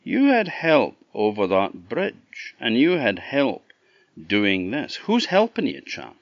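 emphatic accusation rising to a high question; accusing Green Man. Acted. Green Man demands to know who helps Chuck, accusing. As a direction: press the point, lightly in character.

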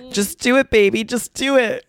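shrieked high and loud; high scream. Retold or imitated. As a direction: scream it up high like a fan chant. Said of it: "her screaming".

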